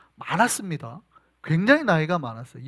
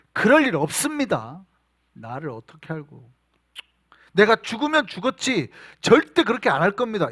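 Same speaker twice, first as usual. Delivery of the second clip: indignant Peter; 4 dB louder than usual. Acted. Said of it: "발끈했거든요".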